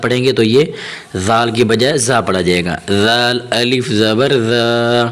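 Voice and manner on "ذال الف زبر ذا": ذال as a gentle th, never a hard z; slow, drawn-out spelling with soft ذا; soft dhal. Shown as a demonstration. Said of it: "حرف ذال کو نرمی کے ساتھ ادا کریں". (ذال کو نرمی سے ادا کرتے ہوئے)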